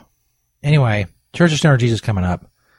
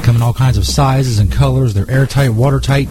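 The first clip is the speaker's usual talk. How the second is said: smooth, steady ad read as a mock Jesus; sponsor ad read. Stoner Jesus to his listeners, a relaxed ad read. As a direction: sell the product like a friendly radio host.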